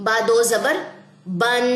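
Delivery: بن said with a clear nasal n at the end; tanween sound demo. Shown as a demonstration. Teacher demonstrates tanween to students, nasal ending held. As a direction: sound out "بن" letting the نون ring. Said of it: "sound کیا ہے اس کی؟".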